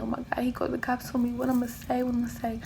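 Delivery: fast, hushed panic; panicked whisper. Retold or imitated. Realizing her ex called the cops, panicked whisper. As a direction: whisper it in a rush, scared.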